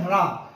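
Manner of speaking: रा with the tongue vibrating on र; vibrating, rolled र in रा; trilled र. Shown as a demonstration. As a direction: roll the र at the start of रा. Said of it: "र वर्ण जो है वो प्रकंपित है".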